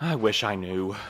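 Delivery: worn-down, spent, tired and weary voice. A character in a group puzzling over a cryptic message, tired.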